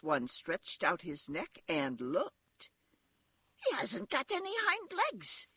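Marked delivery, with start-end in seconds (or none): 3.6-5.5 very high rabbit call. A narrator's reading. Wild rabbit tells the others what he spotted, calling out high. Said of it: "he called out".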